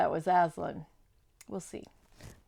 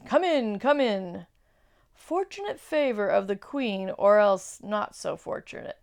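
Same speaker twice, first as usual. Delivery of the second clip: wolf voice; 5 dB louder than usual. Acted. Wolf Maugrim ushers Edmund in.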